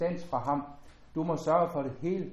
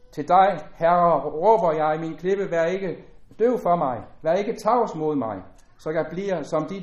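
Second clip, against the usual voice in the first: louder, declaiming psalm voice; solemn scripture reading; 4 dB louder than usual. Acted. Preacher reading a psalm to the congregation, solemn and louder. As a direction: lift the psalm out to the hall, solemn and full.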